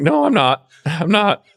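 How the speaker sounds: half-laughing mock protest to the supervisor. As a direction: insist you're not fine, laughing at yourself. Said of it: "I'm like".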